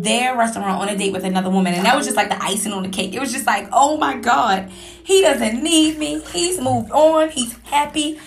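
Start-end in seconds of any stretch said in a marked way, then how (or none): 3.7-8.2 higher, louder, slow pained cry of realisation; hammed-up heartbreak, pitched up; heartbroken shock.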